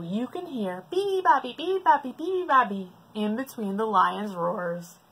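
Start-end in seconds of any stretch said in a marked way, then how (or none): 0.9-2.9 high chirpy call; birdsong. Acted. The zoo's daily bird call, chirpy. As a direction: chirp it lightly.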